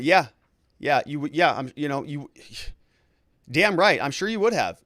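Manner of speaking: mock sarcastic yeah-yeahs; scoffing. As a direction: imitate a scoffing crowd, lightly. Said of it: "they're scoffing at".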